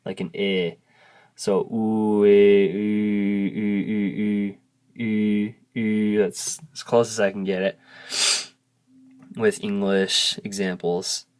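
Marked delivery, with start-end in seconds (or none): 1.3-6.2 put-on ooh sliding slowly toward the I of kid; half-sung ooh drill; drawn-out vowel glide. Shown as a demonstration. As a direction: stretch ooh and blend in an I sound. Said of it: "slowly try to mix in kid".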